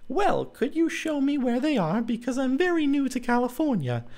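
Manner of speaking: put-on girlish character voice, proud of her find; Clara's high voice. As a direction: speak up high as Clara, triumphant.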